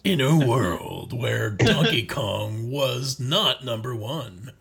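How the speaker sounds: slow, dramatic trailer narrator; movie trailer voice. Pretend. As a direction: do the epic movie trailer read. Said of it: "Honest Trailers voice".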